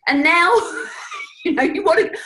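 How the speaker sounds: hurt wife venting with a shrieking laugh; mock outraged wife, high, loud, laughing; exasperated wife. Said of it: "the woman's thinking".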